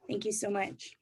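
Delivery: breathy whispered thank you; soft grateful whisper. Real, not acted. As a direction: whisper your thanks into the mic. Thanks audience after poem.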